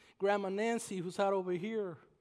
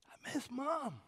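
quiet grief; 5 semitones higher, 7 dB quieter, slower than usual. Real, not acted. Grief for mother.

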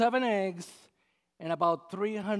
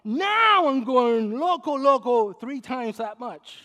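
going loco; 5 semitones higher, 8 dB louder, slower than usual. Real, not acted. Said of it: "if you think I was going crazy".

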